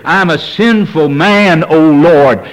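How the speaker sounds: slow, drawn-out lament; crying out in repentance. Retold or imitated. Preacher voicing a repentant sinner, slow lament. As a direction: plead it slowly like a sinner's cry. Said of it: "We'd be saying with Peter".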